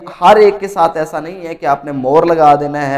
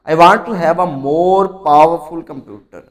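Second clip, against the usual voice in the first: 1 slow example read; 4 dB louder, much slower than usual. Shown as a demonstration. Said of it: "तो यहाँ पे देखें कि".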